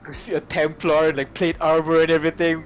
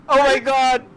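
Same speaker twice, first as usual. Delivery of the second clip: high laughing shriek; laughing exclamation; 10 semitones higher, 4 dB louder than usual. Real, not acted. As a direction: laugh it out in delight.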